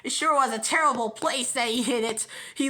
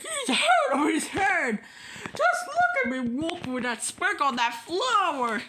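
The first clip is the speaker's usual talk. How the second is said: higher, half-laughing jeer; lightly voiced teasing animals; mocking gossip; 3 semitones higher than usual. Forest gossips laughing at the bear. Jungle animals mock Horton.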